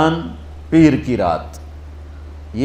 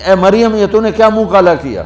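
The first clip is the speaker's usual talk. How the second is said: higher, scornful reproach; mocking taunt; 6 semitones higher, 4 dB louder than usual. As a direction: shame her like the jeering crowd. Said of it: "دوسرا طنز".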